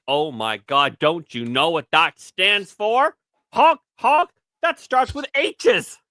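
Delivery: high, slow mocking whine; squeaky sneer at the honking; mocking liberal voice. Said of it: "they're like".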